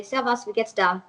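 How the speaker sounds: Austrian dialect, Servus with wie geht's da in place of dir; casual Austrian slang, da instead of dir; österreichisch, Servus, wie geht's da; Austrian greeting. Shown as a demonstration. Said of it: "I would say".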